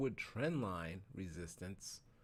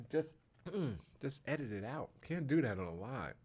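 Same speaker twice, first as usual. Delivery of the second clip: coughing on dust; 4 semitones higher than usual. Real, not acted. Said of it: "It's like I inhaled dust".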